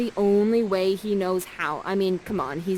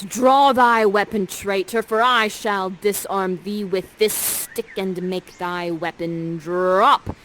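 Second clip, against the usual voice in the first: louder, slower stage challenge; commanding Prospera; 5 dB louder, slower than usual. Acted. Prospera daring Ferdinand to draw his sword, slow loud challenge. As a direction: challenge him grandly, slowly. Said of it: "Prospera says this".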